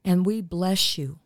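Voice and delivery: earnest, steady prayer voice for listeners; spoken prayer. Acted. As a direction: pray over the audience with calm conviction.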